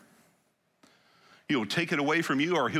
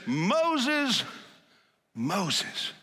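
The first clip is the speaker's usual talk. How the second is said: God calling; 8 semitones higher than usual. Acted. God calling Moses twice.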